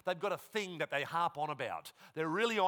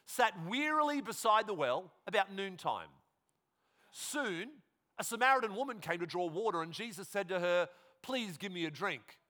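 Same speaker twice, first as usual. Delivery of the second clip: raised, projected Bible reading; scripture reading; 5 semitones higher, 3 dB louder than usual. Acted. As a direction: read the story out loud and clear to the room.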